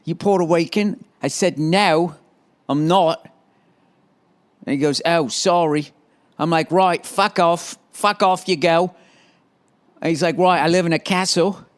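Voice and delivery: lightly put-on English accent; a silly take on English speech. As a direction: tell it in a mock English voice. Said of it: "hearing that stupid accent".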